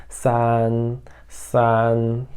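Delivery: "san" held long on one level pitch; first-tone "san". Shown as a demonstration. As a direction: keep "san" even and sustained, like a sung note. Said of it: "Igualzinho o primeiro".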